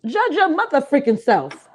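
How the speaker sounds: slow, drawn-out comedic delivery; Michael Allen impression. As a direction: drag it out like a stand-up punchline. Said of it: "As comedian Michael Allen would say".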